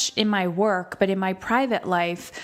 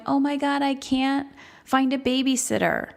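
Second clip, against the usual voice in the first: imitating a stressed parent; 5 semitones higher than usual. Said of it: "people going".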